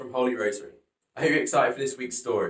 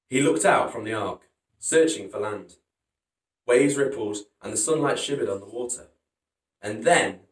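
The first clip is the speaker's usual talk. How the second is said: put-on lively read-aloud for kids; storybook reading; 2 semitones lower than usual. A narrator's reading. Teacher reading Noah's Ark to pupils, lively storytelling. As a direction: tell it like a children's story. Reading picture book to children.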